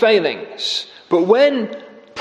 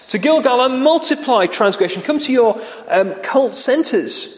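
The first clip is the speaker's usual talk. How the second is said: sarcastic; 5 semitones higher than usual. Retold or imitated. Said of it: "So he's mocking".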